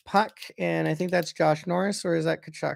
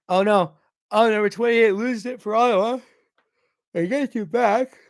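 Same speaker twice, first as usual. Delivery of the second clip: alarmed play call; 4 semitones higher, 4 dB louder than usual. Real, not acted. Alarmed at a lost puck.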